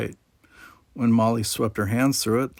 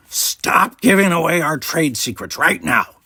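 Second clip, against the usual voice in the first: louder, raised hammed-up Ferengi panic; mock alarm; 6 semitones higher, 6 dB louder than usual. A narrator's reading. Quark scolds the boys in mock alarm, a raised comic Ferengi voice. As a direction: pretend to be scandalized. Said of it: "in mock alarm".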